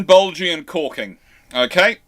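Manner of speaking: ordinary talk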